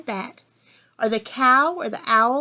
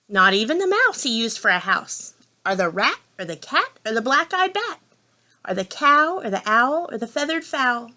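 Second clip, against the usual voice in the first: measured picture-book narration; story reading to children. A narrator's reading. Reader opening a farm story for children, measured storytelling. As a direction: read it out for little listeners, savouring the rhyme.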